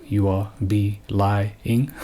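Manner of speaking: be lying, drawn out slowly as two words; mocking wordplay on believe; slow pun on believe. Shown as a demonstration. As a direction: stretch be lying so the lie in believe is heard. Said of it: "What is that, be living?".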